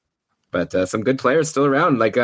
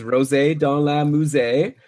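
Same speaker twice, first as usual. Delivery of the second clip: put-on French accent; slower than usual. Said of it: "Such a great French accent".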